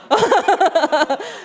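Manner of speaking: a burst of high laughter at her own mock interrogation; laughing at self. Real, not acted. Preacher laughing at her own mock interrogation, amused.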